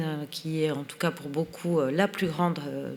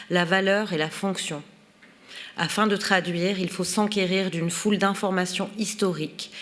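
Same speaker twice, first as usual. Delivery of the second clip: measured, articulate reading of an essay; reading aloud. Acted. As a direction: read the written text out clearly, phrase by phrase. Reads the foreword aloud. (lecture à voix haute, posée et articulée)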